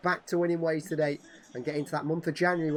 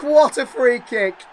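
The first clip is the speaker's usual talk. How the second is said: roared, slow and much louder, pitched high; excited goal call; 8 semitones higher, 13 dB louder, slower than usual. Real, not acted. Gamer hailing Haaland's free kick, roaring with delight. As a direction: marvel at the strike at full voice.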